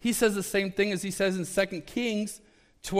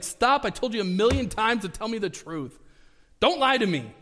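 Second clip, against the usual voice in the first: exasperated demand; 4 semitones higher than usual. Retold or imitated. Ahab telling Micaiah not to lie, exasperated demand. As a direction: demand the truth, tired of lies.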